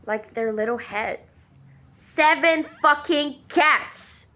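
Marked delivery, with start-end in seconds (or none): 1.9-4.3 outraged. Real, not acted. Retelling cat killing, outraged.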